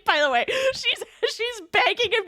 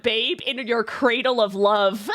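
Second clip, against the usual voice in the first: lower, lovesick drunk impression; drunk adoring papa; 6 semitones lower than usual. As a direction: lightly imitate a besotted husband. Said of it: "my favorite line that you whipped out".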